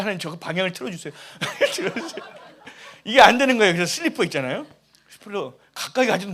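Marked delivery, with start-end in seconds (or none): 0.0-2.2 quick, pleading prayer to turn the bug away; begging God in a rush, half laughing; mock-frantic plea; desperate prayer. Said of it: "그래서 기도했어요".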